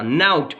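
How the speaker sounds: "नाउट" with an au glide before the t; correcting pronunciation. Shown as a demonstration. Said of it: "ना, ना, ना".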